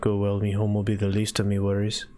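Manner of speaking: reluctant character weighing it up, long pauses; lightly voiced hesitant homeowner. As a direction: think it over haltingly, lightly in character.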